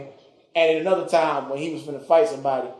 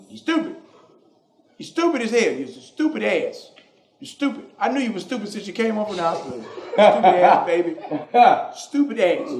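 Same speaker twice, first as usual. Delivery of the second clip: higher, louder repeated insults; mock exasperated grandpa; 5 semitones higher, 3 dB louder than usual. Granddad calling grandson stupid over the phone, hammed-up yelling. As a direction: berate him like a cranky granddad.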